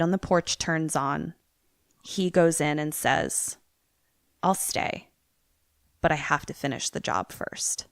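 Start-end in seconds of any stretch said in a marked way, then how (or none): 4.4-7.9 muttered to himself. Acted. Dad talks to himself.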